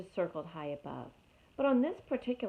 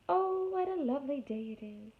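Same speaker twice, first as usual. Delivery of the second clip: light sing-song bird voice; cheerful little bird; high chirpy bird; 7 semitones higher than usual. Acted. Chickadee voice in story.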